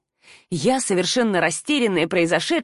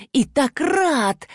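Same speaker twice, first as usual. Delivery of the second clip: mocking; 6 semitones higher, much slower than usual. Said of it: "громко и чётко выговаривать каждое слово".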